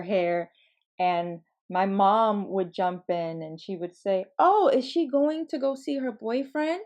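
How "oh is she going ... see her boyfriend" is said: higher-pitched playful prying question; lightly tease, lifting into the question; teasing mom. Retold or imitated. Mom butting into child's doll play, lightly mocking curiosity.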